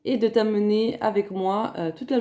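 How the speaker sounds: vocal fry of a just-woken voice; rough early-morning voice with fry. Real, not acted. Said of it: "avec ma voix du matin". (voix du matin, grave et éraillée)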